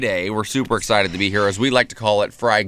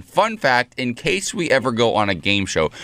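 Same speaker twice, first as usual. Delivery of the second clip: imitating her. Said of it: "starts off a story by saying".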